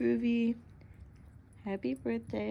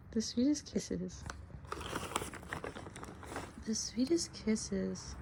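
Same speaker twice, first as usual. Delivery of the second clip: soft, slow and tender; 5 dB quieter, slower than usual. Real, not acted. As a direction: linger lovingly on the words. Tender repeat to the dog.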